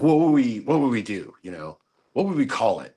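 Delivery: excited mimicry starting high-pitched; Andy. Imitating excitable partner planning the company, lightly high-pitched and excited. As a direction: start high and loud, then ease down. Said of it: "really high-pitched voice when he gets excited".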